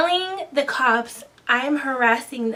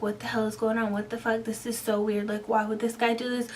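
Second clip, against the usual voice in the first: softer, as if thinking to yourself; retold brooding; 6 dB quieter than usual. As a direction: replay puzzled thoughts under your voice. Retold private brooding thoughts.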